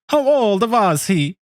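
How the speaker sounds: hammy Italian creep; Italian accent. Pretend. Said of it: "Can you do an Italian accent?".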